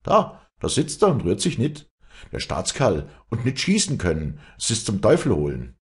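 put-on young hunter fuming he can't fire; frustrated hunter. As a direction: vent that he can't shoot. Leander frustrated at vulture.

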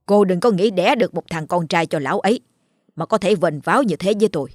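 lightly voiced sneering jibe; the elder wife taunts the proud second wife; needling scorn. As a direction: pick at her with contempt. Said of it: "bắt đầu xỉa xói".

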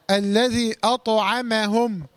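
slow "أطعمهم", only the ط heavy; careful tajweed "أطعمهم", bounced ط; light letters kept clean. Shown as a demonstration. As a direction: recite "أطعمهم" drawn out with thin ع and م. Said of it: "لابد من تخليص الحروف المرققة".

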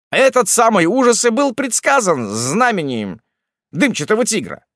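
high, loud anxious tribesman; terrified villager pouring out his story; frightened hillman voice. A narrator's reading. Hillman chief tells tale frightened.

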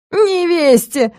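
high, slow howl of outrage; a count howling the word back in disbelief. Acted. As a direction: drag the word out in a wailing howl. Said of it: "взвыл граф".

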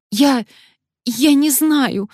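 high, slow frightened stammer; babbling in fear. Acted. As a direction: stammer out excuses. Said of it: "залепетала Алёна".

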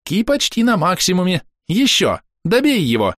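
high, eager cricket voice; excited little cricket; chirping cricket. A narrator's reading. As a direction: urge him on in a chirp. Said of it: "застрекотал сверчок".

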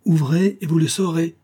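high-pitched commanding call; shouted retort. A narrator's reading. Officer answers the voice behind the door, shouting. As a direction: shout it as a firm order. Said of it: "cria Elim".

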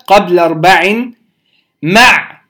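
مع with a silent, vowelless ع at the end; عين ساكنة. Shown as a demonstration. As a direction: close "مع" firmly on the ع, no final vowel. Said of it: "هنسكن عين مع". (مع بتسكين العين)

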